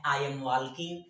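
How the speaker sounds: "walking" with the l sounded; "walking" said as "wal-king"; confident mispronunciation. Retold or imitated. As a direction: imitate a learner's confident "walking" with audible l. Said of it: "कोई कोई लोग confidently बोलते हैं".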